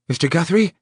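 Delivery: high, loud calling question; called out. Acted. Officer calling for the owner in the storm, calling out. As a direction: call out into the dark yard. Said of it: "one of them called".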